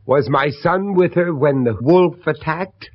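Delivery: loud, pressing question; angry demand. Acted. Father pressing the widow about his son, angry. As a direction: demand the truth.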